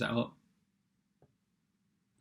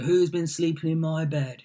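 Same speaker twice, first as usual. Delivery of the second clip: raised, put-on bear voice; storybook bears; 5 semitones higher, 3 dB louder than usual. Bears' refrain all throughout the story, put-on higher voice. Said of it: "they go".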